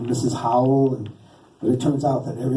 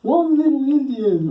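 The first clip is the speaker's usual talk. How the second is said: high, loud counting puppet voice; hammed-up, stretched-vowel counting; 11 semitones higher, 4 dB louder, slower than usual. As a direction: call out the tally with theatrical delight. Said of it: "'cause he'd be like".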